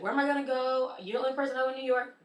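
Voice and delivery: high, hurried mock pleading; imitated girlfriend protest. Girlfriend told to leave the apartment, imitated indignant protest.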